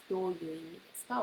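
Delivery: どういう意味ですか said very quickly; very fast model question. Shown as a demonstration. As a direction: zip through it quickly as a student asks. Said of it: "and you can ask".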